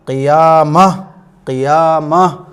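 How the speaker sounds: क़ियामा drawn out, ending on a breathy h; waqf pronunciation. Shown as a demonstration. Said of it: "तो क्या पढ़ा जाएगा?". (क़ियामा को खींचकर, आख़िर में हा साकिन)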